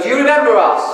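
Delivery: playfully acted joyful hello; beaming, really happy. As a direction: imitate a glowing, happy wife. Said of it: "glowing and beaming and really happy".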